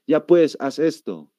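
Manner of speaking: paceño "ya pues" with a clear S; demonstrated La Paz speech; La Paz accent. Shown as a demonstration. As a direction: order it the La Paz way. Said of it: "el paseño siempre dice".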